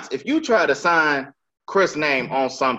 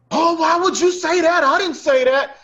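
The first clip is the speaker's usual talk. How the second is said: much higher falsetto whine mocking the customer; mock whiny denial; 14 semitones higher, 4 dB louder than usual. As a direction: ham up a defensive high whine.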